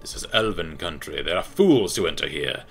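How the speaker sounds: haughty elven champion; Altmer voice. Acted. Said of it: "give him my Altmer voice".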